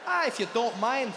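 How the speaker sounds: mild Scottish lilt; a gentle laddie brogue; Scottish accent. Retold or imitated. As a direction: waiter asks for the order again, in a Scottish accent. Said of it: "Scottish Indian man".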